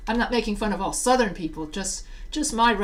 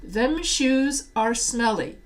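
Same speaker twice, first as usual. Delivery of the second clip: Southern accent; 2 semitones higher, slower than usual. Shown as a demonstration. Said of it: "the reason why I did the Southern accent".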